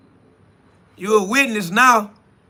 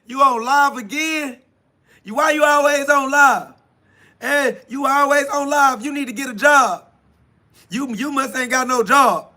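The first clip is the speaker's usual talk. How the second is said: higher, nagging hater voice; sneering mock critic, pitched up; 6 semitones higher than usual. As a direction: whine it like a heckler in the comments. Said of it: "They like".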